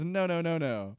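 ordinary talk, nothing marked

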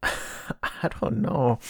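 slow, soft laugh through the words. Real, not acted. Vlogger unsure about religion in cartoons, laughing softly. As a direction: laugh away the awkwardness. Laughing at own conflicted opinion.

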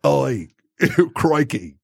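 put-on slow, sloppy Australian accent; hammed-up drunk Australian; drunk Aussie accent. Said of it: "like a drunk Aussie".

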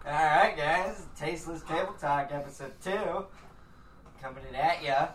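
loud, slow, hyped show announcer; podcast host intro. Acted. Opening the podcast episode intro.

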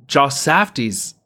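lightly imitated drawn-out podcast guest; a hint of a celebrity impression, stretched out; Julia Fox. Co-host showing friends how an actress talks, light impression. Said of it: "the way she says Uncut Gems".

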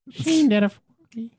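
voice crack. Acted. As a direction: voice cracking on Sheen. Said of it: "Is that a voice crack?".

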